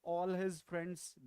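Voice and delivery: slow, careful example. Shown as a demonstration. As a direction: say the phrase slowly. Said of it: "If you speak like this".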